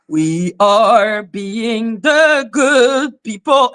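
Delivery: a slow, soft, sugary mock of the rival; lightly mimicking her sweet, slow voice. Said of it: "her soft voice".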